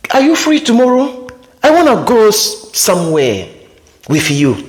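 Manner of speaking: high eager question; high put-on asker; guy asking. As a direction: ask brightly like the guy.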